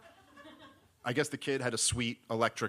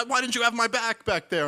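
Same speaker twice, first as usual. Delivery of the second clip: retold scream; 11 semitones higher, 7 dB louder than usual. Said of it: "started screaming at us".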